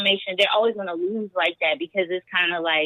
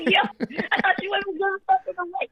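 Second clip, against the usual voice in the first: amazed rant; 11 semitones higher, faster than usual. Retold or imitated. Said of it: "I'm like".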